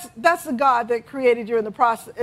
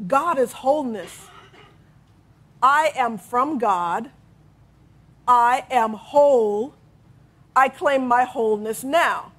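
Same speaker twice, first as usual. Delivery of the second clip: spoken affirmation; slower than usual. Shown as a demonstration. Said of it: "Reverend Sheila's affirmation, hear me well".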